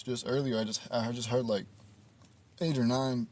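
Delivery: hiccuping between words; fighting off hiccups while talking. Real, not acted. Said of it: "These hiccups are gonna really piss me off".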